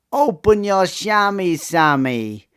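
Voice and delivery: put-on high-pitched voice, strong Caribbean accent; squeaky high Caribbean-accented voice. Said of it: "speak with a very high-pitched voice in a strong Caribbean accent".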